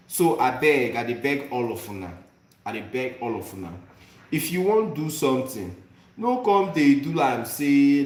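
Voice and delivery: emphatic Nigerian pidgin demo; heartfelt plea in Nigerian pidgin. Shown as a demonstration. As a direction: exhort them in Nigerian pidgin. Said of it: "I wanna speak it in the Nigerian pidgin".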